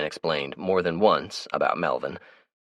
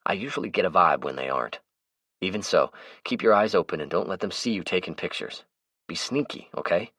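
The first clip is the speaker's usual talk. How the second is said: Melvin's voice; 3 semitones higher than usual. Acted. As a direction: play the chatty, easygoing Melvin. Melvin voices his lines.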